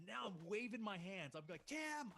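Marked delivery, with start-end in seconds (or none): 1.7-2.1 high-pitched mock yell of a name; high, stretched holler; retold scream. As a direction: call out urgently to someone far away. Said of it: "I'm screaming".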